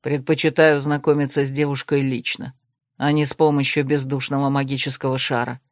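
low, measured male voice; lightly voiced reserved man; calm necromant. Desmond voiced lower.

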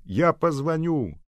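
a loud, slow, stretched call down the line; shouting with all his might. Acted. Seryozha shouting goodbye down the phone line. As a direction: yell across the distance. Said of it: "закричал Серёжа изо всех сил".

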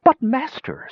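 high, cringing screech; groveling savant screeching to his master. A narrator's reading. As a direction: plead up high from the ground. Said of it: "screeched one".

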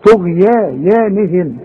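طغيانهم slowly, heavy ta and ghain; tajweed demo of طغيانهم; slow recitation. Shown as a demonstration. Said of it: "شوف".

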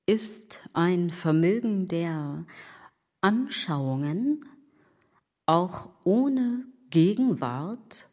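slow, hushed, word by word; whispered Kant quote. Acted. Quoting Kant to the listener, slow and whispered. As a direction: whisper the philosophy like a secret. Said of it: "Lesen Sie Kant".

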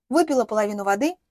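ordinary delivery

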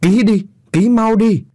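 high, loud, slow bellow; angry shout. Acted. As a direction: roar the order at the wife. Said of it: "mà quát to". (chồng quát to bắt vợ ký)

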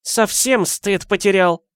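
put-on high, creaky-free old granny voice; old woman voice. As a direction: play the nosy old neighbour. Old woman lectures husband.

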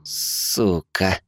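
soft, exhaled curse; breathed curse. A narrator's reading. Lars, betrayed by his wife, breathes a soft curse. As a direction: spit the word out under the breath. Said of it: "выдохнул Ларс".

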